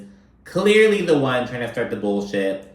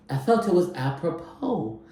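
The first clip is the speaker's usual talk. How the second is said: mocking Bob; 4 semitones higher than usual. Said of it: "Trying so hard".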